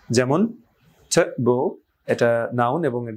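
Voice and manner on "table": "table" broken into two measured syllables, rising at the end; split into syllables. Shown as a demonstration. Teacher introduces a two-syllable example to learners, split into syllables. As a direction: say "table" syllable by syllable, ending on a rise. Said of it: "প্রথম অংশে স্ট্রেসটা হয়".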